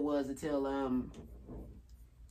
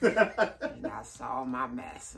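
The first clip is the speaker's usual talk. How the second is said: slave interview voice; 4 semitones lower than usual. Retold or imitated. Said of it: "That's how they act".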